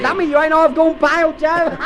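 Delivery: high, giggling delight; laughing. Acted. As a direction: laugh through the words. Laughs at Joe covered in paint.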